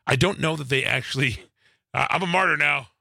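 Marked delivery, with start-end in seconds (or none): 2.1-2.9 put-on Southern accent. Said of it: "I don't know why I'm giving him a Southern accent".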